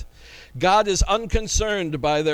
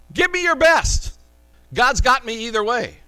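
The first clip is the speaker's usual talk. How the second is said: defiant dare; 3 semitones higher, 4 dB louder than usual. Acted. Voicing Shadrach's defiance of the king.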